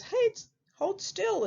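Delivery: high piglet voice; little pig. Acted. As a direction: pipe up as a high-pitched pig. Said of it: "And the pig says".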